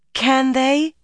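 high, drawn-out urgent question; anxious insistence, pitched high; insistent. A narrator's reading. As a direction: press harder, voice rising. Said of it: "Egwene insisted".

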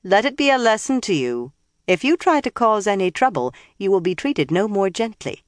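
high, sharp menacing warning; menacing villain. Acted. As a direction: threaten her with a lesson. Liandrin warns.

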